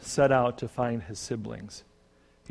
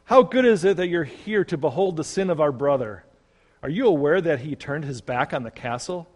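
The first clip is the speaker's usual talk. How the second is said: eager loud, higher call; shouting; 4 semitones higher, 6 dB louder than usual. A narrator's reading. Fault-finding son shouting as his brother approaches. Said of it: "he shouted".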